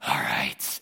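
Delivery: very low, resigned agreement; deflated. Retold or imitated. You after the good mood is sucked away, deflated. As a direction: give in with sunken pitch. Deflated reply to sudden bad news.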